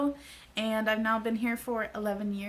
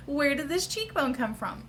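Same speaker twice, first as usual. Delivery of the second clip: thrilled wonder; 4 semitones higher than usual. Retold or imitated. Delighted by her cheekbones.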